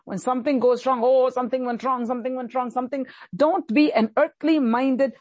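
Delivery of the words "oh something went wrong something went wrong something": mock heathen fretting. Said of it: "don't be like the heathen".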